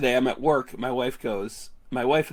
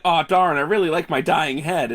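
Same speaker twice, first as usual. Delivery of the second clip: mock comic character; 2 semitones higher than usual. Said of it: "and the guy's like".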